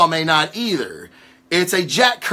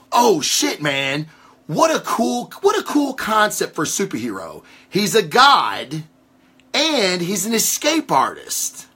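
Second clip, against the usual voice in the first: mock excited fan; 3 semitones higher than usual. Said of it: "to be like".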